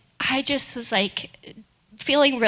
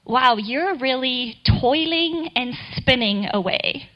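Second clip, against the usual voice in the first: gentle; slower than usual. Retold or imitated. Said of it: "Very gently tapped me on the shoulder".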